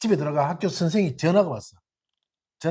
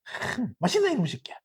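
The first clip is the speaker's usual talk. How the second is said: affectionate swearing; 4 semitones higher than usual. Retold or imitated. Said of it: "어릴 때 보면은".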